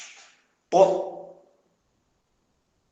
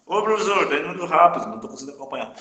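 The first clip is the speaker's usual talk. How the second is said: lightly voiced student, higher at the start; student's complaint; 4 semitones higher, much faster than usual. Student telling the teacher he's too fast, lightly acted complaint. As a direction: pipe up as a student who can't keep up, voice dropping off. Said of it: "vocês falem".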